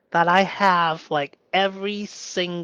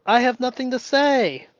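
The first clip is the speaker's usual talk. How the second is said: fearful inner voice; 7 semitones higher, 3 dB louder than usual. Retold or imitated. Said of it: "the story in my brain says".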